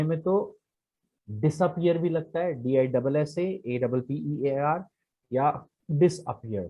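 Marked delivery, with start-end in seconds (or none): 2.6-4.8 डीआईडबलएसएएडबलपीईएआर spelled letter by letter, slowly. Shown as a demonstration. Teacher spelling the word for students, slowly letter by letter. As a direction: spell it out one letter at a time. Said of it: "spelled out letter by letter".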